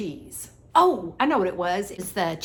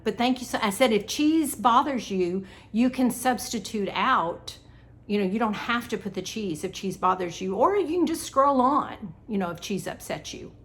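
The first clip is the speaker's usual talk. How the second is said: a little catty. Retold or imitated. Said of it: "It was a little catty".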